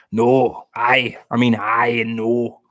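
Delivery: playful mock Glaswegian; Glaswegian accent. Fan of the good strong accent, trying Glaswegian. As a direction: try out Scottish words in a Glaswegian accent. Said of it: "I do like the Glaswegian accent".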